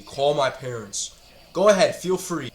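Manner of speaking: slow, falling scoff. Real, not acted. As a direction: say it flat, dismissing the threat. Repeating the threat, scoffing.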